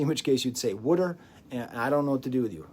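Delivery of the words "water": put-on wooder in a mild New Jersey accent; a touch of New Jersey on wooder. Mocking New Jersey speakers, New Jersey wooder. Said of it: "New Jersey".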